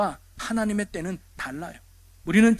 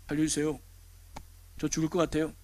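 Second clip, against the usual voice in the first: soft, low, understated call for help; deliberately quiet plea; 3 semitones lower, 10 dB quieter than usual. Acted. Drowning person calling for help, absurdly quiet. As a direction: ask for rescue far too quietly, as a mock example. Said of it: "이렇게 조용히 말하는 사람이".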